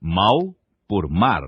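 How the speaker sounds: mal said for mar, slowly contrasting L and R; faulty R as L. Shown as a demonstration. Teacher showing mal in place of mar, slow. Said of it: "pronúncia defeituosa do R".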